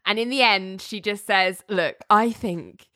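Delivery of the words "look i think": reluctant. Retold or imitated. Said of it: "really trying not to say why".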